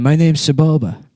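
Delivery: lightly voiced goofy alien racer; a hint of a dopey pod racer; silly character voice. Pod racer introduces himself.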